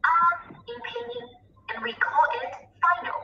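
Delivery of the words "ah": "a" as an open ah; vowel sound demo. Shown as a demonstration. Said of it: "which is pronounced".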